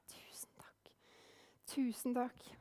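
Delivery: whispered, moved thank-you; hushed thanks. A narrator's reading. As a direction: barely breathe the thanks. Mother thanks for shawl. (kvinnen hvisker takk for sjalet, rørt)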